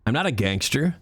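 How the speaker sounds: lightly voiced American game hero; a hint of nineties American hero, pitch lifting on the last phrase; George Stobart. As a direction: play it like an iconic adventure-game lead. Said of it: "from George Stobart in my generic American voice".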